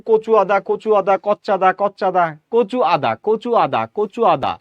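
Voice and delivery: কচু আদা as two words; separate words. Shown as a demonstration. Teacher playing a market buyer, separately. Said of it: "আপনি বলতে বলতে যখন দ্রুত উচ্চারণ করছেন".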